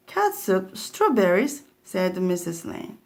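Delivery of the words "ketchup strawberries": a sharp high squeak of disbelief at the food; appalled disbelief. Acted. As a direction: ask it like a horrified mother. Mother appalled at baby's food.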